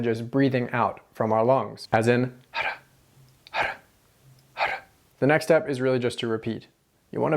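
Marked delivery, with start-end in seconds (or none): 2.5-4.8 ara breathed out, voiceless; rolled r exercise. Shown as a demonstration. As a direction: ara pushed with air only. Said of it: "say ara without letting noise come out".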